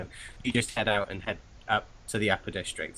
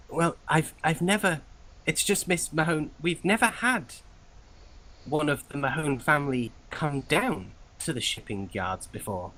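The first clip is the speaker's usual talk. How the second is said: higher, hesitant clerk voice; wary clerk; 6 semitones higher than usual. Acted. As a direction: voice a doubtful clerk, pitched up.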